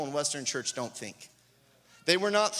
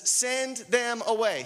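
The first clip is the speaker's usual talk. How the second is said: "Send them away" slow and higher; "Send them away" as a deliberate, high-pitched order; emphatic command; 6 semitones higher, slower than usual. Acted. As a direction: stretch out "Send them away" with weight on each word. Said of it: "Away, with emphasis".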